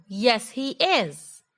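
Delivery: slow, "is" fully stressed; slow emphatic yes. Shown as a demonstration. Teacher giving the right positive answer. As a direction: stretch "Yes, he is" slowly and firmly. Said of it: "I cannot say".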